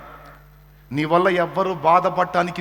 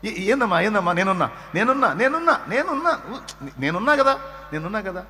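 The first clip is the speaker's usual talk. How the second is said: comforting parent; 4 semitones higher than usual. Retold or imitated. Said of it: "తల్లి కానీ తండ్రి కానీ".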